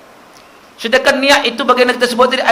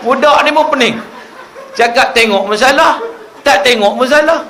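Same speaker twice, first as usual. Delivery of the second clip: laughing; 5 semitones higher than usual. Real, not acted. Preacher laughs while telling.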